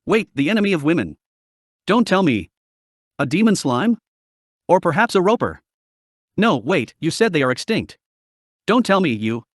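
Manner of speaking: shrill with excitement. A narrator's reading. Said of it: "Darkness's voice became shrill due to her excitement".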